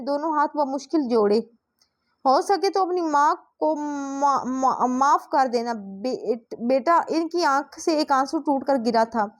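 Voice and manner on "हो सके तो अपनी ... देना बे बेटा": slow, faltering, breaking off mid-word; a weak mother barely getting the words out; dying, broken words. A narrator's reading. Dying mother begging daughter's forgiveness, slow and faltering.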